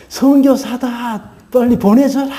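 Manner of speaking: villagers' yell, high and stretched out; mock shout, pitched well up, drawn-out words; imitated shouting. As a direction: mimic a crowd calling out to the police. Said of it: "경찰에게 막 소리를 지릅니다".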